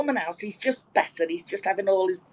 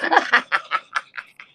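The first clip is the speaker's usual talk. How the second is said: high burst of laughter; real laughter; 3 semitones higher, 3 dB louder than usual. Real, not acted. Joke teller reaching the punchline, laughing out loud. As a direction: crack up at your own punchline.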